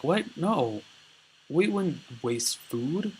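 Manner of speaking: mock indignant protest. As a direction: act out offended disbelief. Accused group protests in retelling.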